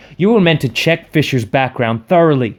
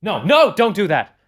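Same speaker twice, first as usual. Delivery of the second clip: exclaimed; 3 semitones higher than usual. Acted. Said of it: "Cobb exclaimed".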